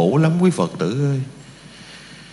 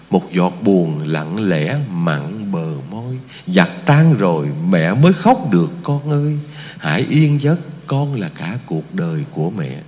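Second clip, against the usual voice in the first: mournful recitation; 6 semitones lower than usual. Acted. Monk reciting the mother's lament at the grave. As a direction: let the grief sink low.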